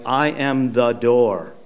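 slow, deliberate proclamation; weighty and measured; solemn divine declaration. Retold or imitated. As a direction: declare it slowly, word by word. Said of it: "Jesus says something like".

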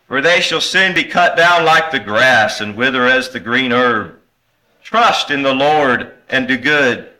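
measured, declamatory Bible reading; scripture reading. Acted. Preacher reads the psalm to the congregation, declamatory scripture reading. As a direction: read the verses out with conviction.

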